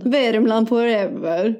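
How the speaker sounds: slow, drawn-out Värmland dialect; Värmland accent. Acted. Quoting the series title, Värmland accent. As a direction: stretch it like a Värmland local. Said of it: "Det är lite värmländska".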